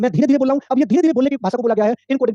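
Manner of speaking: slow, deliberate explaining pace; slow speaking demo. Shown as a demonstration. Teacher to online class, speaking slowly to demonstrate. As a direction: draw the words out slowly to show it. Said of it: "धीरे-धीरे mic लगा के बोल रहा हूँ".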